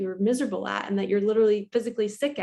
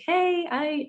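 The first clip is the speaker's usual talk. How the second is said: much higher-pitched retold greeting; imitated friendly neighbor; 9 semitones higher than usual. Neighbor at the door calling on her, high imitated greeting.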